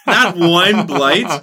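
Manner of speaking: slow, stunned disbelief; drawn-out astonished question; surprised. Real, not acted. Disbelief at opponent's luck.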